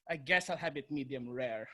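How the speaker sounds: low, soft, grudging concession; imitated reluctant mom. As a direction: give in quietly and reluctantly.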